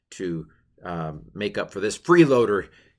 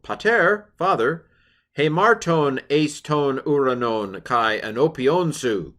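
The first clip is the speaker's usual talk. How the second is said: repentant son; 6 semitones higher, 6 dB louder, slower than usual. Acted. Voicing the son's confession.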